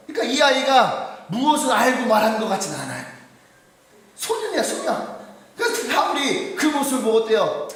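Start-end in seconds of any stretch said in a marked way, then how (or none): 4.1-5.2 raised pitch. Shown as a demonstration.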